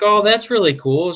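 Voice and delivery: high, lightly voiced encouragement; kindly to a child. Retelling Shannon answering the birthday boy, high and encouraging.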